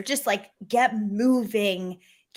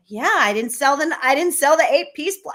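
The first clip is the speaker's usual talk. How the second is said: retold upset whine, higher and louder; mock-lament a missed sale to the boss; a touch of a dejected complaint; 4 semitones higher, 4 dB louder than usual. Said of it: "like, I was really upset".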